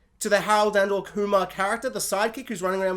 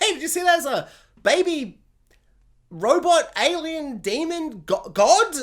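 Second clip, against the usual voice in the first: Spider-Man; 6 semitones higher than usual. Retold or imitated. Voices an imagined Spider-Man.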